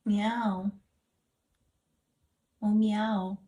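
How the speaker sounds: loud spoken cat meow; mock cat cry in own voice; imitated meow. Meowing back at the cat.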